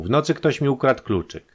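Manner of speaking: loud, high-pitched complaint; alarmed cry. A narrator's reading. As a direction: keep crying out in alarm. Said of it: "krzyknął nagle".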